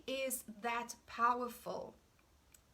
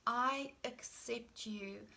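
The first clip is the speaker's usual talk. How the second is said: slow gentle affirmation; slower than usual. Shown as a demonstration. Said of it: "The second sentence we're gonna be using is".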